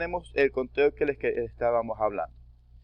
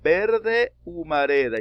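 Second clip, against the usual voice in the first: drawn out, slightly higher reading of the line; teacher reads the verse aloud slowly; 4 semitones higher, 4 dB louder, slower than usual. Shown as a demonstration. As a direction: read the verse slowly for counting. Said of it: "termina en vocal y empieza con H muda".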